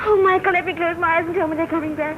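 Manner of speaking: loud, anguished outburst; distraught plea. Acted. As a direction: beg to be told it isn't true. Ship gone, she pleads.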